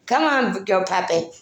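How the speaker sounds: doting dog-mommy call; coaxing pet talk. Real, not acted. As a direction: urge the puppy along.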